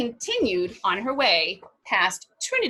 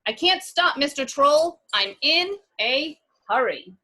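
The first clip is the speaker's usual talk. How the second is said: put-on higher, brave little girl; 7 semitones higher, 5 dB louder than usual. Fiona bravely telling the troll she can't stop. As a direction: sound braver than she feels. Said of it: "in her bravest voice".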